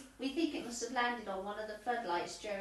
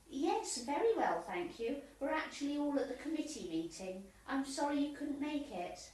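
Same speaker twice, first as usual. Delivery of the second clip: phone voice. Acted. Answering phone call from coach.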